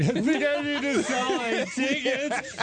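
laughing while retelling. Retold or imitated. Bawling on plane, laughing retelling.

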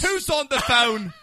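high, loud, drawn-out English call; mock British accent. Host asking who called, mock British voice. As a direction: sing out in a silly British voice.

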